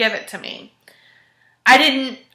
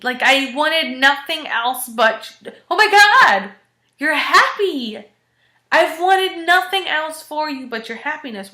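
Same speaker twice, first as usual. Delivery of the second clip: higher, gushing excitement for a friend; overjoyed for him, pitch leaping on the big words; thrilled reaction, retold with full enthusiasm; retold delight; 4 semitones higher than usual. Retold delighted reaction to his news.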